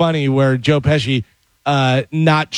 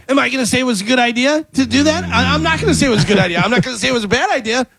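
high, rapid-fire coach impression; Sean McVay; 10 semitones higher, much faster than usual. Imitating the Instagram guy doing the Rams coach, high and rapid-fire. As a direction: rattle it off much higher and very fast. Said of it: "Instagram that imitates Sean McVay".

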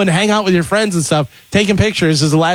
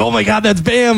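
mildly excited imitation, higher pitch; 6 semitones higher than usual. Retelling a comedian spotting his friend's purple Lamborghini, excited. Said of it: "all excited about it".

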